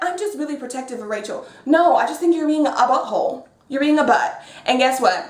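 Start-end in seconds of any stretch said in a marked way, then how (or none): 0.0-1.4 quick, softer mock-protective quote. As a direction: imitate his claim, quietly and fast. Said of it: "has the nerve to be like".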